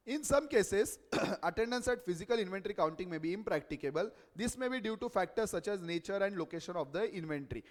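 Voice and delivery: slow, measured reading of a standard; formal reading aloud. Real, not acted. Teacher reading an auditing standard to students, slow and formal. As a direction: read the clause out deliberately.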